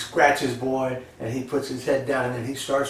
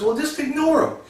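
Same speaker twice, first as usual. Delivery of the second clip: higher, brushing it off; dismissive husband; 13 semitones higher than usual. Retold or imitated. Husband telling his wife to ignore it, impatient. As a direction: wave her off impatiently.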